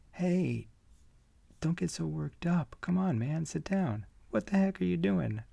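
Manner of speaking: panicked guy trying to calm an angry friend; alarmed pleading shout. Acted. Panel altercation, guy calming you.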